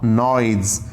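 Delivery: नॉइज set low, ending in a voiced Z; correct pronunciation of noise. Shown as a demonstration. Teacher answering own question for students, नॉइज with Z ending. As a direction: repeat नॉइज as a low, careful model, "noyz". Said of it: "क्या बोलते हैं इसको?".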